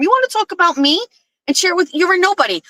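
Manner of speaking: quick, high-pitched indignant rant; heated retort, retold at a fast clip; retold angry comeback.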